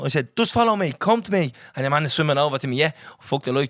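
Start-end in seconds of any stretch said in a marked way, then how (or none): 0.4-1.5 calling out. Retold or imitated. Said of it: "I was calling him".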